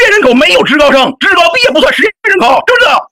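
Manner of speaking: a real tearful outburst; shouting through tears; crying shout. Real, not acted. Heated argument, crying shout.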